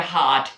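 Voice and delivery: हार्ट said haat, r dropped; heart without r. Shown as a demonstration. Students को हार्ट बिना आर के बोलकर दिखाना. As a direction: model हार्ट with no r, open aa. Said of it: "हार्ट में आर को pronounce नहीं करना".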